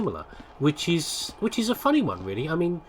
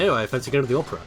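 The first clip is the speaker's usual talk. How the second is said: lightly voiced posh toff; a touch of put-on poshness; much faster than usual. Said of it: "the posh voice".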